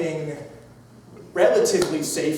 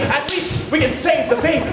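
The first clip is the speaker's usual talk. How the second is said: raised, lightly urgent crowd call; half-shouted advice, played for comedy; mock shout; 4 semitones higher than usual. Crowd reasoning with the mother, mild mock shout. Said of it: "they shouted".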